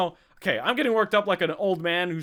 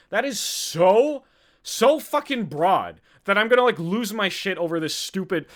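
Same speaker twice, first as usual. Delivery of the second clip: exasperated; 3 dB louder, slower than usual. Real, not acted. Host outraged at how broad the definition is, exasperated. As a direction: drag out the disbelief, pitched up.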